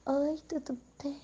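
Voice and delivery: a soft, breathy-free hush of a lonely woman greeting a man; needy flirty greeting. Pretend. Needy woman greeting a man who comes to talk, soft and flirty. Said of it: "eu falo".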